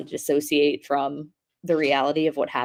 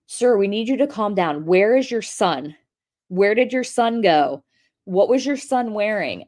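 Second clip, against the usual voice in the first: deputy questioning; 4 semitones higher than usual. Retold or imitated. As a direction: imitate a deputy patiently repeating questions. Retold deputy questioning distraught stepfather.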